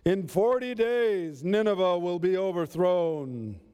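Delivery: angry prophet calling out a warning to a whole city; vehemently angry. Acted. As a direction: cry out the doom slowly and furiously. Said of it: "in a vehemently angry voice".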